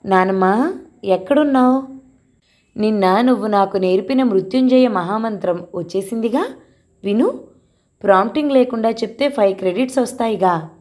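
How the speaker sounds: a hint of a schoolboy bursting in; lightly voiced excited boy. Grandson running in from school, calling his grandmother, eager.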